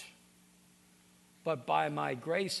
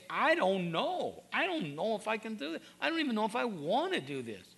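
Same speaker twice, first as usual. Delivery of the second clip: weary despair; 6 semitones higher, 3 dB louder than usual. Retold or imitated. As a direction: sound worn out and unsure. Voicing someone at their limit.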